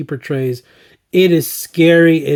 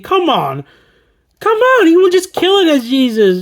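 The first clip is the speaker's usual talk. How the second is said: excited; 11 semitones higher than usual. Real, not acted. Gushing about Keanu as Jesus.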